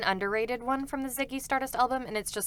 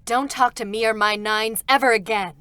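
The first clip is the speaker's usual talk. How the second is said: meme line on request; 9 dB louder than usual. Pretend. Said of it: "Kira, can I get two B saying".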